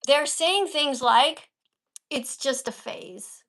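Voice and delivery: slow, with a pause before the quote; slow emphatic reading. Shown as a demonstration. Teacher modelling a slow, weighted reading for the student. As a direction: drag it out and let the quote land. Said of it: "Now you read the next one".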